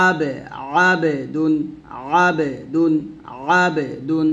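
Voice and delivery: আবেদুন, syllables apart, throaty first vowel; pressed ayn. Shown as a demonstration. Teacher repeating the drill, pressed ayn. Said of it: "অবশ্যই একটু চাপ দেব".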